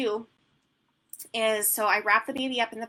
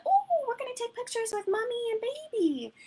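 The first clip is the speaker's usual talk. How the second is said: high, bright announcement; sing-song baby talk. Retold or imitated. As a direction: sell it like a party game. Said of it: "I sound ridiculous when I'm doing sessions".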